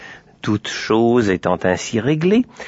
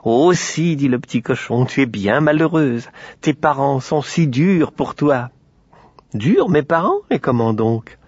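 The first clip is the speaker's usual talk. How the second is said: cochon insistant; 3 semitones higher than usual. Acted. Le cochon manipule Aurore.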